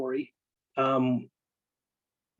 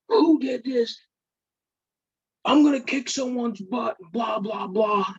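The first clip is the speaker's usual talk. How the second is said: retold angry outburst; 8 semitones higher than usual. Angry friend finds room trashed.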